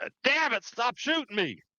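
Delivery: very high-pitched, shrill yelling outburst. Voicing a man hit by gunfire: yelling in character. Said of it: "he yells out".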